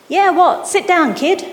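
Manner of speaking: high, loud, snapped squawk; squawking driver. A narrator's reading. Bus driver snaps at the kid to sit, squawking. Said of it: "she squawked".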